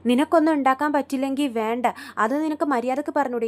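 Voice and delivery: loud, heated husband's rebuke; retold angry retort. Sachi hitting back at Revathi during their fight, loud and angry. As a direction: bark it back mid-quarrel. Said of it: "തല്ലിപിടുത്തമാണ്".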